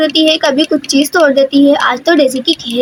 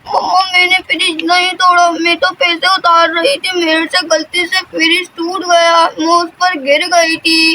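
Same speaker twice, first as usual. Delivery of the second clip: put-on scared child; 3 semitones higher than usual. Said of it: "खौफ से कपकपा रही होती है".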